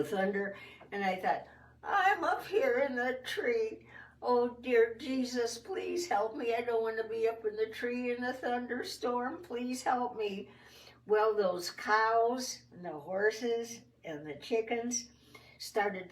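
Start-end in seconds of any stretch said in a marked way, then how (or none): 1.8-10.5 higher, teary pleading prayer; scared prayer. Retold or imitated. Frightened girl in the tree prays to Jesus, teary. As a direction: beg Jesus for help, close to tears.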